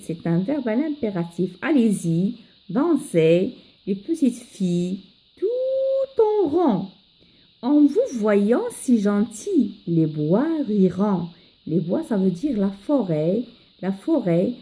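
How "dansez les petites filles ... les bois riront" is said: poem recitation for learners. Acted. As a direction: model the stanza melodically for pupils. Teacher recites the first stanza.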